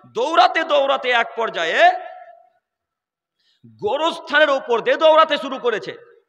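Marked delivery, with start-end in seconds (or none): none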